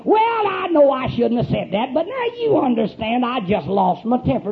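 mock apologetic, swooping intonation; apologetic excuse. Preacher mimics someone excusing a lost temper, mock apologetic. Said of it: "an apologetic intonation in your voice".

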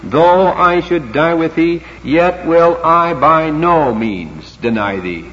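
slow, weighty stress on "by no means"; emphatic vow. Shown as a demonstration. Preacher voicing Peter's vow to die, slow and emphatic. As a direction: make "by no means" deliberate and firm. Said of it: "That's as strong as you can put it".

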